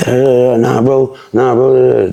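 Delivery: high, repetitive brushing-off chatter; mimicked protest. Mimicking the gunman's endless talking, protesting.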